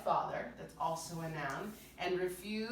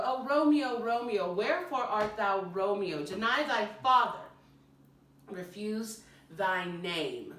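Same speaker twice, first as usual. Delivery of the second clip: Juliet declaiming; 5 dB louder than usual. Acted. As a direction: throw the lines out toward Romeo, slowing at the end. Performs Juliet's speech.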